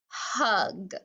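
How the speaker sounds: "hug" joined into one syllable; blended word. Shown as a demonstration. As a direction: run the sounds together as "hug". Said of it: "one more time".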